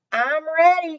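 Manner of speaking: high, loud eager answer; eager reply. Acted. Kathy answering her brother, high and eager. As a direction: blurt out that she's ready. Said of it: "Kathy said".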